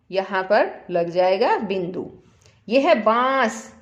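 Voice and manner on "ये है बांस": बांस with a stretched nasal आँ; nasal aa in baans. Shown as a demonstration. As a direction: draw out बांस so the आँ rings through the nose. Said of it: "आ, ऐसी sound आ रही है ना". (बांस में आँ को नाक से खींचकर बोलें)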